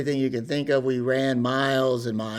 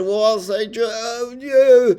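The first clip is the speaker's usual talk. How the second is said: flustered recruit; 9 semitones higher, 6 dB louder, slower than usual. Retold or imitated. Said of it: "And I said".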